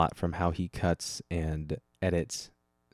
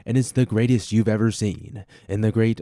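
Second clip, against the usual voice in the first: louder, hyped-up praise; excited; 3 semitones higher, 7 dB louder than usual. Real, not acted. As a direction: sell it like the greatest thing ever. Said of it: "hyping up his video".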